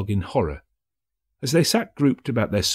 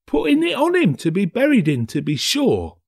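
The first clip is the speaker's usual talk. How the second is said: much higher, mocking laugh in the voice; amused, scornful reply; 12 semitones higher, 3 dB louder than usual. A narrator's reading. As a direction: laugh off the waste of a good shirt. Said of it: "replied the woman with a laugh".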